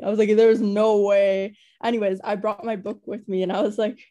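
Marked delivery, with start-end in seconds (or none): 0.3-1.6 slow, louder disbelief. Retold or imitated. Learning Harry shares her favorite book, slow stunned disbelief. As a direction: stretch it out in shock.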